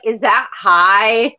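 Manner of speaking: drawn-out mock query; imitating co-host's question. Co-host quotes the streamer's fever reaction, teasing imitation. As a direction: stretch it slowly, teasing the co-host. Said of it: "I love the fact that you're like".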